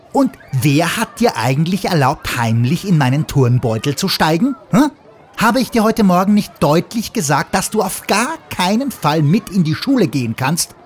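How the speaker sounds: put-on a hurt child telling off her friend; offended scolding. Sarah scolding Fluguri, hammed-up offended rant. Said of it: "schimpft Sarah beleidigt".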